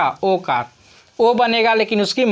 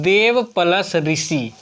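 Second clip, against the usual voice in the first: slow, spelled-out; slower than usual. Shown as a demonstration. Teacher to class, reading the sum slowly. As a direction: slowly read out देव प्लस ऋषि. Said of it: "क्या लिखा हुआ है?".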